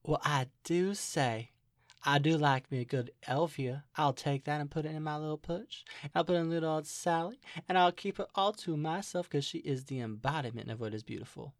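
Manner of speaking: put-on drawling Southern belle; Southern character voice. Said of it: "my D and D character voice".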